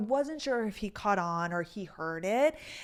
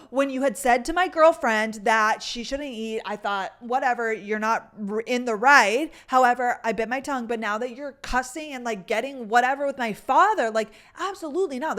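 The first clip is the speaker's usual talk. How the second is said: imitated confrontation, louder in bursts; retold indignant telling-off, building in emphasis; getting aggressive; 2 semitones higher, 5 dB louder than usual. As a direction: act out a boyfriend squaring up. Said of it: "he started getting aggressive".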